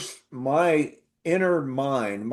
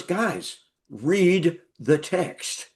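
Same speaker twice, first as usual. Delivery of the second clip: patient rebuke; 2 semitones higher, much slower than usual. Retold or imitated. Professor tells students to read.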